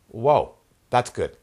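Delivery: loud, slow "whoa"; acted amazement, punched loud; impressed exclamation. Acts out impressed onlooker.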